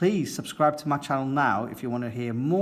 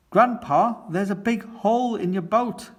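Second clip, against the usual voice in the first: put-on much higher, louder childlike alarm; alarmed cry; 9 semitones higher, 5 dB louder than usual. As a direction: shout the bad news in a fright. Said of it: "cries Peppa".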